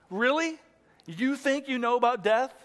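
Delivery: incredulous mocking question, high on "Really?"; jeering. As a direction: challenge him with scornful disbelief. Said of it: "they kept kind of jeering Jesus".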